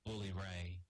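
low, monotone wrestler impression; low-pitched impersonation of a wrestler; Jeff Hardy. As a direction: speak low and even, as an imitation. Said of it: "doing a Jeff Hardy impression".

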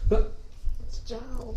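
slow whispered Giles, drawn out; whispered correction. Shown as a demonstration. Coworker quietly correcting the weatherman's Giles, whispered. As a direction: breathe the correct Giles slowly. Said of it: "correcting the county name".

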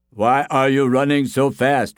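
lightly voiced curious bystander; villager's question. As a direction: call out the question to a runner. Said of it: "one asked him".

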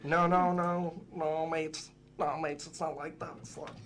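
hammed-up Scouse telling mates no; mock Scouse accent. The speaker correcting his own Paul impression in a mock Scouse accent. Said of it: "How did you manage to do a Scouse accent".

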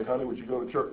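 soft, calm imitation of the wife; very calmly. Wife asks her husband again on Sunday, very calmly. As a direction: ask quietly and calmly. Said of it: "and very calmly say".

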